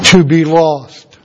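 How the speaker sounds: slow, weighty answer; drawn out, grave and falling; solemn emphasis. Real, not acted. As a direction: let each word land slowly and gravely. Answers own question, solemn climax.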